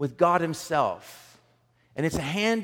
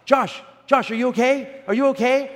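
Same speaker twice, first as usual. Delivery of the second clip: alarmed calling out; 10 semitones higher, 7 dB louder than usual. Retold or imitated. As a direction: imitate worried bystanders, high and loud. Bystanders calling out after the accident.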